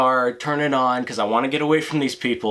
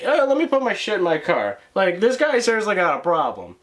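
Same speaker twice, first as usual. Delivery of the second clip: mocking tipsy woman; 6 semitones higher than usual. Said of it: "she's like".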